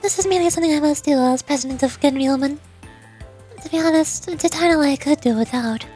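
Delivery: lightly voiced, poised president character; composed student president. President checking on the visitor's work, lightly voiced composure.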